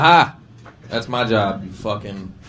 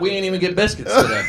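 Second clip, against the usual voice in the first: mock inmate shout; 7 semitones higher, faster than usual. Cellmate yells at the new guy, hammed-up shout. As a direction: bark it like a tough inmate. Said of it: "He's like".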